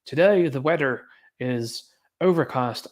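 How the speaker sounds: put-on slow, drawn-out affected Midlands accent. Streamer mimicking media people's speech, affected Midlands accent. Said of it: "that Midlands affected accent".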